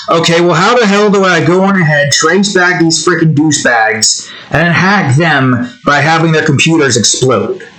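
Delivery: hammed-up indignant threat; mildly pissed. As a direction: vow overblown revenge, half in earnest. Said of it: "young me would be pissed".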